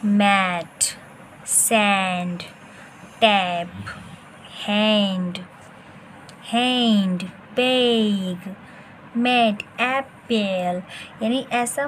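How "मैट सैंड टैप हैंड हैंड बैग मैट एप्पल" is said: मैट, सैंड, टैप, हैंड each called out loudly with an open short a; loud pronunciation drill. Shown as a demonstration. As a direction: drill मैट and बैग like a teacher. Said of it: "जैसे यहाँ पे देखिए one number पे बैग".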